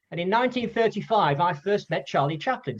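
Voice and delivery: a hint of frail Hal Roach starting another tale; old man at the Oscars launching a new story, lightly voiced; little high voice. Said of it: "this little high little voice".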